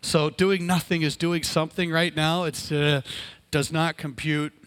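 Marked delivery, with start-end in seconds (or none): 2.4-4.5 flat mechanical robot voice. Acted. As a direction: say it like a malfunctioning robot. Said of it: "That was my best robot voice".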